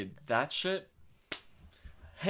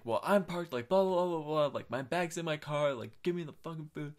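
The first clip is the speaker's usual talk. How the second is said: higher-pitched mock rant; imitated angry yelling; 5 semitones higher than usual. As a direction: mimic an irate driver, higher but not shouting. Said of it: "they would start yelling at me".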